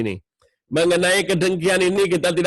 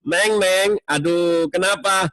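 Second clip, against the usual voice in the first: gentle tone. Shown as a demonstration. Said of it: "bagus, nadanya enak".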